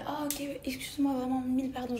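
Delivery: excuses polies, voix plus aiguë; garçon poli imité. Retold or imitated. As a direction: imite un garçon qui s'excuse gentiment. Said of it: "tellement poli et tellement gentil". (imitation légère d'un garçon très poli)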